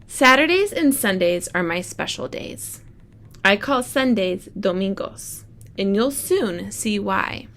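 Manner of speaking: bright storybook read-aloud; reading to children. Acted. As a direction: read it like story time for the class. Teacher reads picture book aloud.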